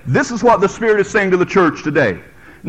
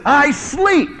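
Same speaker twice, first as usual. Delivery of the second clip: sleepy bride; 6 semitones higher than usual. Acted. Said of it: "She says".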